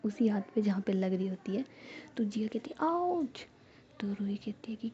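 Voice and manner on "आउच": high ouch. Acted. Jiya hit on sore hand.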